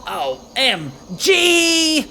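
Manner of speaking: stretched, crying high squeal of joy; drawn-out shocked OMG; excited squeal. Acted. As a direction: squeal it like a thrilled teen. Excited game character shouts.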